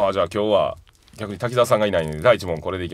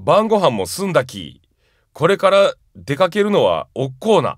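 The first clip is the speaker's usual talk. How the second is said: slow, careful Tosa-dialect read of the example, おっこーな drawn out with a falling tune; 5 semitones higher, 3 dB louder than usual. Shown as a demonstration. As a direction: read the Tosa example sentence slowly, as a demo. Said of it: "一応例文も高知弁になってますんでね". (土佐弁の例文をゆっくり読み上げる)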